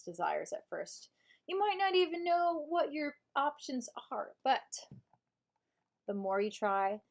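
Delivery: measured audiobook narration; audiobook reading. Shown as a demonstration. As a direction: read the self-help book aloud as a narrator. Reads book in audiobook voice.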